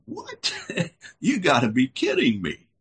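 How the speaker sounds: mock-shocked high squeak of disbelief; a hint of a disbelieving wife; incredulous wife. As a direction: play the wife, stunned and scoffing. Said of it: "His wife said".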